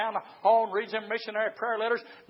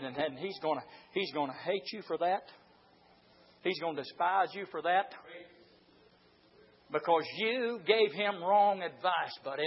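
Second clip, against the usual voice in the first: accusing devil; 4 semitones lower, 7 dB quieter than usual. Acted. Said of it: "and then he went on".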